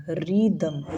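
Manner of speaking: रिदम said with no h sound; short "ri" opening in रिदम; silent H. Shown as a demonstration. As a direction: say रिदम as rid-um, leaving the H silent. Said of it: "एच हमने नहीं बोला".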